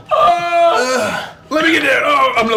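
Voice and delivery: turning feral. Pretend. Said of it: "I'm turning into my most feral self".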